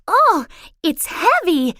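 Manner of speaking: straining, slow and breathless; gasping with effort. A narrator's reading. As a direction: gasp it out under a heavy load. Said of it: "she gasped".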